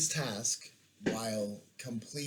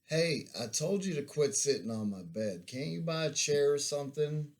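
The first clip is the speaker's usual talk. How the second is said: slightly annoyed; 5 semitones higher, 3 dB louder than usual. Retold or imitated. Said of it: "slightly annoyed".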